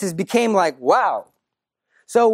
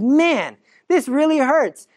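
put-on child complaining; 5 semitones higher, slower than usual. Lucia trying the rope.

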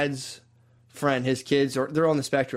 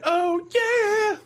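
much higher, hammed-up whoop; mock coke rush. Comic mocking the inner voice of a cokehead, whooping. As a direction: whoop like a coked-up partier. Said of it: "everyone on coke in their head".

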